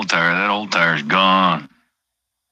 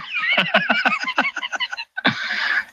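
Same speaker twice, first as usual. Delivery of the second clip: high-pitched, rapid staccato laugh; 3 dB quieter than usual. Real, not acted. Trucker cracking up at his own old picture, high laugh. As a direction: laugh in a string of high pulses.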